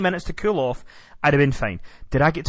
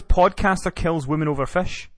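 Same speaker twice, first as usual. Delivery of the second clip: mock headline. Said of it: "I'm gonna be in the papers".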